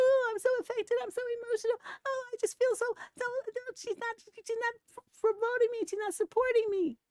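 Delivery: mock very high, self-pitying whining complaining voice. Mocking the listener's complaints about her mother, imitating someone whining. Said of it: "the thing I hate most in the world is whining".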